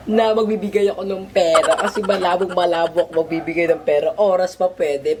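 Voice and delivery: swoon, then draw the line with a laugh; playful giggle; giggly tease. Real, not acted. Teasing swoon then refusing money.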